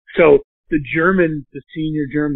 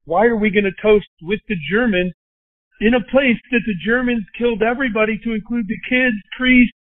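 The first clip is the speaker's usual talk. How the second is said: rising, more and more worked up; pressing the point higher and higher; retold heated objection; 5 semitones higher than usual. Telling his wife why he won't toast, getting worked up. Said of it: "And I was like".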